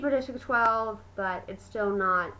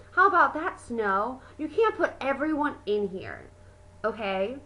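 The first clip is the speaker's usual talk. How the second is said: mild retold yell, loudest at the start; mock yell. Johanna yelling at Snow in the arena, mild mock yell. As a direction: imitate an angry yell, held back. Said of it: "yelled in the arena".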